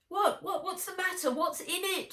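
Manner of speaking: high-pitched, urgent questions; alarmed. A narrator's reading. Girl to the shaken man on screen, alarmed. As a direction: fire out worried questions, stumbling at first.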